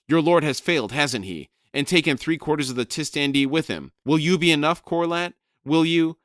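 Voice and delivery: loud, high furious squawking shout; shouting raven. Acted. Crone shrieking at Brood to find Rake, loud and high.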